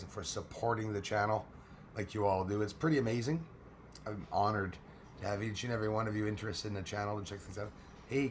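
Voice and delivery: normal talking voice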